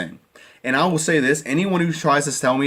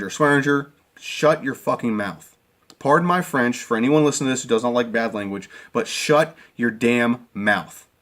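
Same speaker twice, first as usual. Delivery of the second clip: angry call-out. Real, not acted. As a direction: spell out each word to shut him up. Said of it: "I'm gonna call out Swearinger".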